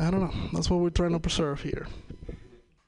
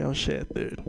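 laughing panic. Retold or imitated. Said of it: "I'm like".

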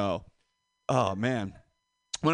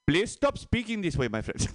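put-on Indian accent; 4 semitones higher than usual. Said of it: "you do not speak our language".

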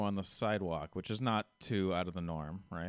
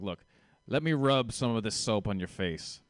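lightly imitated Russian salesman; Russian accent. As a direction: push the sale in a put-on Soviet accent. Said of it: "He talked like this".

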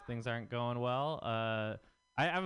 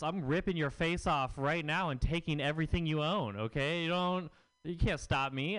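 heated retort; 3 semitones higher, 4 dB louder than usual. Retold or imitated. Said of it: "I'm just like".

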